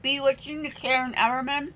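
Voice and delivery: talking around ice cubes; mouth full. Real, not acted. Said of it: "I'm talking with the ice in my mouth".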